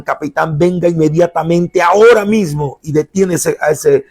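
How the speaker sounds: urgent command, rising on the last words; guardsman radioing orders. Acted. Guardsman bossing his captain by radio, urgent mock command. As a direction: demand it at once over the radio. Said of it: "agarras la radio y le dices al capitán".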